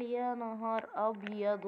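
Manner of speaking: slow, stretched-out retold exclamation of dismay; mock dismay. Husband learns his clothes are wet, drawn-out mock dismay. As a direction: draw out the dismay, imitating him.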